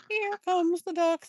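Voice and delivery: loud, slow, high-pitched heralding; excited announcement. Real, not acted. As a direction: announce it with real excitement, stretching the words. Announces the duck's arrival to viewers.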